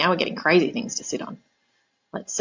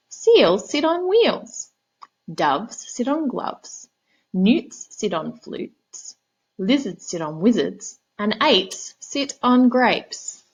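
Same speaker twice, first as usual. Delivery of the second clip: high, slow know-it-all cat voice; bossy cat; 3 semitones higher, much slower than usual. Acted. Cat lecturing the frog on rhymes, high slow smug voice.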